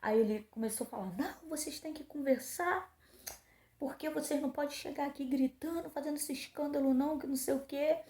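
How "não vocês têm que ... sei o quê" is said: higher, scolding tone for the guard; mock scolding guard; scolding man. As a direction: imitate a guard's lecturing reprimand. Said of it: "começou a brigar comigo".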